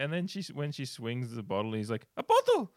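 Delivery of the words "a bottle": loud, very high film-quote cry; mock yell. Quoting him as she swings the bottle, mock yell. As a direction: shout it high, ready to laugh.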